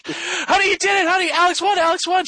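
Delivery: high, loud excited shouting; retold elation. Husband running outside to his wife, elated. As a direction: call out the news in acted-out glee.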